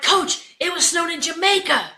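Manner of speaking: high-pitched comic exasperation; incredulous protest. Retold or imitated. Assistants to head coach, exasperated disbelief. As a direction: insist as if the boss is crazy.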